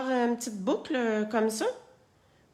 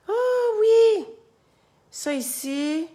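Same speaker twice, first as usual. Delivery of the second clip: high squeaky delight; excited squeal; 12 semitones higher, 3 dB louder, much slower than usual. Real, not acted. Excited discovery mid-craft. (cri aigu de joie)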